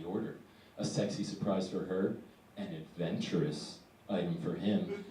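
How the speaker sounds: lightly voiced seductive ad woman, pitched low; a hint of sultry sales pitch, softened; mock sexy ad voice. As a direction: imitate a come-hither radio ad. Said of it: "with this, like, sexy voice".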